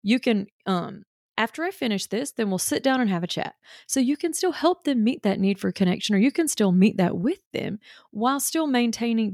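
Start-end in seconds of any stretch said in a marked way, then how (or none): 0.0-3.5 gentle mom. Shown as a demonstration. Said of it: "what you can do is say".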